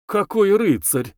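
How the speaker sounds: high, drawn-out mock admiration; ironic snort. A narrator's reading. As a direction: scoff ironically, stretching the words. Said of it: "иронически фыркнула Варвара".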